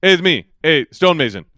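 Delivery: loud, halting broken-English imitation. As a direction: bark the name in clipped broken English. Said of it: "broken English".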